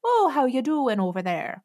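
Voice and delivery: a playful attempt at a Midwestern accent. Shown as a demonstration. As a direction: imitate a Midwestern greeting with Scandinavian-tinged vowels. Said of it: "their accent's a little bit".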